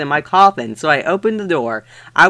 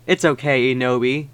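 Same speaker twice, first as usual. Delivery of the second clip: softer, lower comforting voice; 4 semitones lower, 5 dB quieter than usual. Acted. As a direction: soothe her gently. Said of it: "said Vampire comfort-, comfortly".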